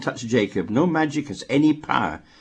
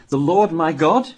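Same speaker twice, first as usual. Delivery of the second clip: ironic question; 2 semitones higher, slower than usual. Shown as a demonstration. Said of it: "Kinda, like, interesting here".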